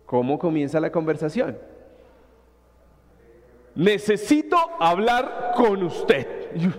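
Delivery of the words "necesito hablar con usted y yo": slow and heavy, loaded with trouble; the dreaded "we need to talk" line; tense, ominous. Retold or imitated. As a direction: make it sound like bad news is coming. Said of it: "ponemos el ambiente tenso".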